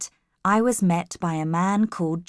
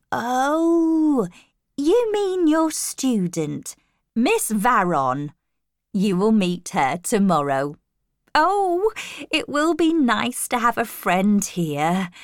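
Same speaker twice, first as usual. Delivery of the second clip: high, drawn-out realisation, then friendly; kindly older lady, delighted; 4 semitones higher than usual. Acted. Housekeeper glad to have a friend here, kindly and delighted. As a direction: voice a smiling hostess, pitch swooping up. Voices smiling Mrs Fairfax.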